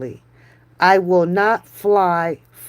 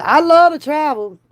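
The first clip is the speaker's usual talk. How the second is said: higher and louder, I love to travel thrown out eagerly; excited declaration; 6 semitones higher, 3 dB louder than usual. Pretend. Telling her friend she loves travel, eager and loud. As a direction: punch love with a bright lift.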